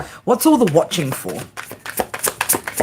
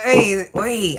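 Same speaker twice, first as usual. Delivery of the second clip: Aussie oi; 2 semitones higher than usual. Real, not acted. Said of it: "so fucking Aussie ... so wog".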